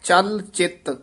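ਚਲ ਚਿਤ said a little tight and clipped. Shown as a demonstration. Teacher shows ਚਲ ਚਿਤ said a little tight and firm. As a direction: press ਚਲ and ਚਿਤ firmly. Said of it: "ਥੋੜਾ ਜਿਹਾ ਕੱਸ ਕੇ ਬੋਲਣਾ ਹੈ".

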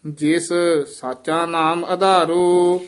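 full, drawn-out chant line; scripture recitation. Shown as a demonstration. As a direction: recite it steadily, stretching the ending. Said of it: "ਜਿਸ ਤੇ ਯਮਕ ਲਾ ਦੇਣੀ ਹੈ". (ਲੰਮੀ ਹੇਕ ਵਾਲਾ ਪਾਠ)

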